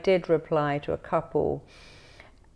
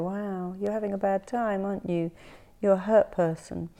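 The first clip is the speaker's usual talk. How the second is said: soothing sympathy; 4 semitones higher than usual. Retold or imitated. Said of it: "instead of you getting hostile".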